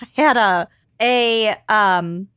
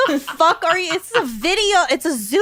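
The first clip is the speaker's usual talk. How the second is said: high, laughing exasperation; laughing disbelief; 5 semitones higher than usual. Retold or imitated. Retold exasperated quote, laughing.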